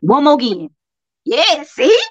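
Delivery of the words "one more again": Southern country accent on "One more again". Shown as a demonstration. Echoing a friend's phrase to show it, country accent. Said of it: "Country. As country as hell".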